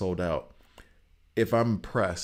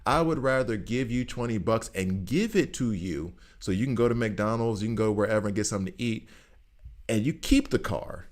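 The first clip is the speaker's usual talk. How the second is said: exasperated retort; 2 semitones higher than usual. Retold or imitated. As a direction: argue back, fed up but generous. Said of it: "It's like".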